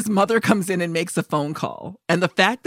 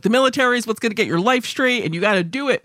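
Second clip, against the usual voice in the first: fast, higher-pitched imitation of military zeal; intense; 5 semitones higher, faster than usual. Imitating the military uncle lecturing his nephew, intense and fast. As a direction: push it through like a gung-ho officer. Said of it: "He's so intense about".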